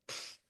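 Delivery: dismissive pfft. Retold or imitated. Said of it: "with conviction".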